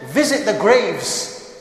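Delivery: drawn out, each word weighed; slow solemn quote. Shown as a demonstration. Preacher quoting the prophet to brothers, slow and solemn. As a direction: lay the prophet's words down slowly. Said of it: "he went further and he said".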